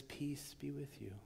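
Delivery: a hushed, breathy whisper of peace. Retold or imitated. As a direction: whisper it gently, like a blessing. Sermon retelling Jesus' greeting.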